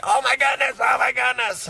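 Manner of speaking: high, put-on kid voice, gushing; amazed niece. Niece seeing the bed fold out, amazed. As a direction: imitate an awestruck little girl.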